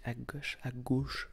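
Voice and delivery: "gauche" in the speaker's own accent. Shown as a demonstration. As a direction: try "gauche" both ways, unsure of the vowel. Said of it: "J'arrive pas à dire gau".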